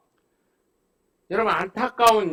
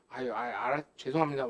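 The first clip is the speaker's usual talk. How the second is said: softer, fumbling meek apology; flustered apology; 7 semitones lower, 9 dB quieter, faster than usual. Retold or imitated. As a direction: plead your way out. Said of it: "막 이러더라고요". (쩔쩔매며 사과하는 구의원)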